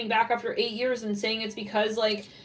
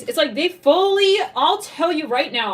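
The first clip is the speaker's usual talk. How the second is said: worked up; 5 semitones higher, 6 dB louder than usual. Real, not acted. Worked up about the reading.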